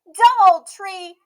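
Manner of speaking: put-on slow, loud, high grumbling child; a sulking girl stretching each word; sulky Emmy. A narrator's reading. Emmy angry.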